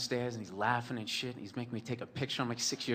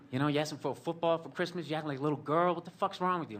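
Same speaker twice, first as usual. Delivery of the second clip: higher-pitched mock tirade from dad; raised, exasperated scolding; berating dad; 5 semitones higher, faster than usual. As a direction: imitate a father tearing into his son. Imitates father berating him as child.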